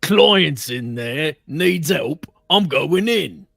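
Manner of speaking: loud, slow "Client's in there"; firm bodyguard. Acted. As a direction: insist you're going in. Bodyguard insisting to guards.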